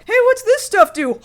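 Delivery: a hint of a kid poking at a bag; curious kid.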